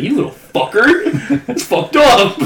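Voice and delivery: high, slow outrage through laughter; mock outraged laugh; laughing protest. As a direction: curse him out while cracking up. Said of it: "He's like".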